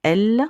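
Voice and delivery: spring the letter L on them as a quiz; emphatic letter. Shown as a demonstration. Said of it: "Riz commence par".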